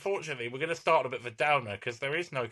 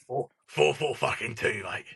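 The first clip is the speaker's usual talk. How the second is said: Sean Dyche; 3 semitones lower than usual. Acted. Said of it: "a bad Sean Dyche".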